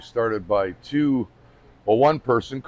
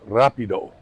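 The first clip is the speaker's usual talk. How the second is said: Italian accent; 4 dB louder than usual. Shown as a demonstration. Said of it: "That was my best Italian accent".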